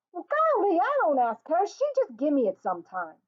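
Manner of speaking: put-on high, loud protest from an indignant boy; outraged. A narrator's reading.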